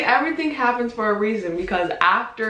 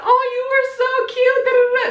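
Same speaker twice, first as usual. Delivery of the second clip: much higher, cooing mom voice; imitating mom; 3 dB louder than usual. Mom texting back about the baby photo, cooing. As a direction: gush like a doting mother. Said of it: "And she was like".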